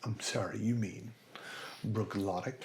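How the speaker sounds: lightly voiced waiter, softly correcting; a hint of a politely condescending waiter; soft mock apology before the correction. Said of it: "the waiter goes".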